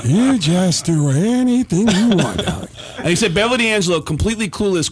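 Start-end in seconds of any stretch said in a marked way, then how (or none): 0.0-2.7 lightly voiced gruff sneer; sarcastic Pacino. Pacino mocking Baldwin in front of D'Angelo. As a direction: needle him with dry sarcasm. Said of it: "Pacino's looking at him going".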